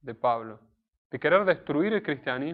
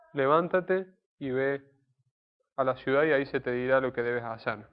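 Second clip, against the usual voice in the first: "Levántate y ve a la ciudad" drawn out slowly and solemnly; slow solemn command. Shown as a demonstration. Preacher reading God's order to Saulo, slow and solemn. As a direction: read God's command slowly, weighing each word. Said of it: "se hace caso a la voluntad y a la voz de Dios".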